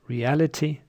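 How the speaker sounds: reality said with a full "ree" first vowel; one pronunciation of reality. Shown as a demonstration. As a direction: open reality with a clear "ree". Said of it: "you may hear".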